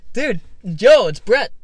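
calling out loudly, surprised; excited yell of recognition; excited shout. Retold or imitated. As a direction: shout his name across the slope. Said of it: "And then he's like".

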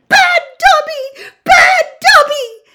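very high, loud slow squeal. Acted. Dobby banging his head on the table, squealing. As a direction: squeal it in frantic self-punishment.

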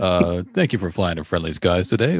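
captain opening the announcement, brisk; pilot greeting. Pretend. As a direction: toss it off as the cheery first line. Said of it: "this is your pilot".

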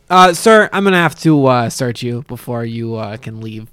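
formal rent-a-cop voice; polite, official guard voice; bored security guard. Acted. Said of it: "in his best security guard voice possible".

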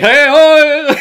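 high, loud hammed-up greeting; mock excited shout. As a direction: holler it like a cartoon hello. Two Pierres greet their past selves.

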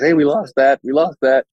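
mock a sad company admitting a loss; mock loser announcement. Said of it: "nobody advertises".

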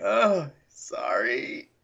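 slow, drawn-out mock sorry; half-hearted guilty apology; sheepish apology. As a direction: imitate being caught and stretch the apology. Greedy's sheepish apology, retold.

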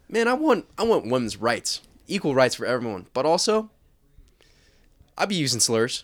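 leftist bit character. Acted. Friend repeating the dirtbag-left bit, mock-earnest. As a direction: swing up on the cause, drop back for the punchline.

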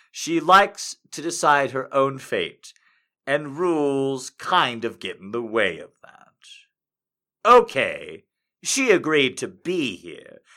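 measured storytelling read with deliberate pauses; story narration. Acted. Fanfic narration continues.

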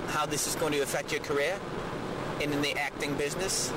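Michael Caine over speakerphone. Pretend. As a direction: ask it like a posh caller. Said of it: "Sir Michael Caine".

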